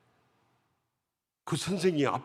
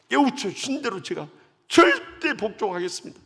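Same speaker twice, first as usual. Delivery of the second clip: fervent vow; 8 semitones higher, 7 dB louder than usual. Retold or imitated. Deacon vowing obedience in prayer.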